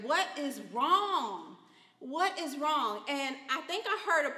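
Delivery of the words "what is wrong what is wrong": slow wondering. Retold or imitated.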